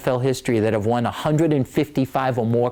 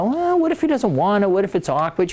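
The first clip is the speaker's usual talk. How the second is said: higher, fretful worried whine; nervous self; 5 semitones higher than usual. Retold or imitated. Husband quotes his own worried reply to his wife, higher and fretful. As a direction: voice his own jitters, pitched up.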